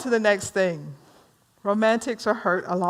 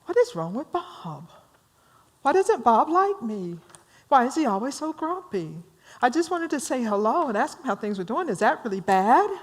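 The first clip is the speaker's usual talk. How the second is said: nervous thinking; 3 semitones higher, 3 dB quieter than usual. Acted. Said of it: "He's all nervous now".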